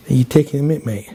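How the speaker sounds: put-on low London-accented challenge. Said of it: "with my London accent".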